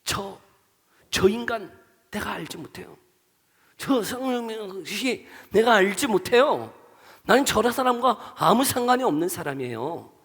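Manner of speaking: disown someone with scorn, drawing it out; cursing disavowal. Acted. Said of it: "예수님을 저주하는 거예요". (저주하듯 부인하며)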